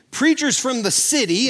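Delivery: "city" said pointedly, with weight; deliberate emphasis. Real, not acted. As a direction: land deliberately on the word "city". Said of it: "I'm saying that very deliberately".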